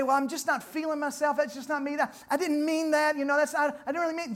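a hint of someone squirming out of blame; mock excuse. Preacher mocking people who deny their words, a touch whiny. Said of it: "that we say".

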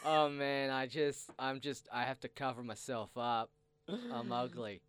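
a hint of someone stoned and self-pitying; drugged out voice. Masked performer answering a woman on the street, lightly drugged-out voice. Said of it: "in the most drugged out voice I can think of".

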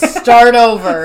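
half-yell it as a slow command; mock yell. Boss ordering a worker to redo it, mock yell. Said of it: "goes down to yell at Derek".

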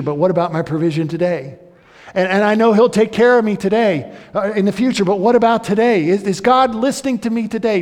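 loud, high, pleading voice of a doubting churchgoer; worried believer. Pretend. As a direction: voice the listener's anxious questions, rising in urgency. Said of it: "You can say".

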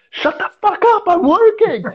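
irritated retort to a coworker while climbing; angry snap. Retold or imitated. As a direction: bark it back down the tree, annoyed at being bothered. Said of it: "And I was like".

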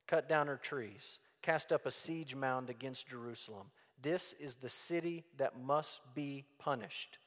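measured, solemn Bible reading; scripture reading. Acted. Preacher reading Jeremiah's warning to the congregation, solemn. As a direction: read the prophecy out with weight.

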